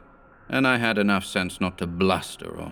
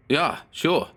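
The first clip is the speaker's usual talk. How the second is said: insisting; 8 semitones higher than usual. Acted. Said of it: "insisted the Pole".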